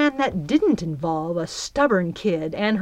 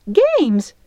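scornful; 9 semitones higher, 7 dB louder than usual. A narrator's reading. Belle scoffs at the word.

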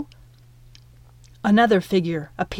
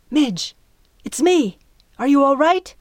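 urgent call; 6 semitones higher, 5 dB louder than usual. Acted. Piper calls out on deck.

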